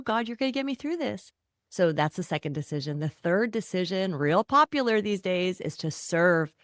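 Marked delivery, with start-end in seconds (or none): 0.0-1.3 mock prayer. Voiced prayer to God.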